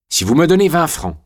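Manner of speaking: high, lively rogue's voice; cheeky convict. A narrator's reading. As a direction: pitch it up like a jaunty scoundrel. Gay convict bargaining with Julien.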